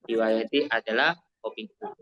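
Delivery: fast soft recap with "adalah" rising. Shown as a demonstration. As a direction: rattle it off again, lifting "adalah".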